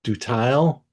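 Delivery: Dutile as a tentative, questioning guess; unsure pronunciation. Real, not acted. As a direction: try out Dutile, unsure how it is said. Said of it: "How do you pronounce that?".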